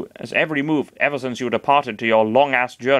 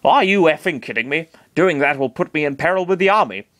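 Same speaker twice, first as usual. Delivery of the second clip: Are you effing kidding me in Master Hand's voice, near the narrator's own; corrected take as Master Hand, close to the narration; 4 semitones higher than usual. Acted. Master Hand scoffs at Chris's request, in his own near-plain voice. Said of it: "that was actually Master Hand talking".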